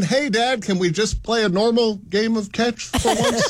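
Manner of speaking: a hint of a whiny kid; lightly voiced pleading son. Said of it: "said David's son".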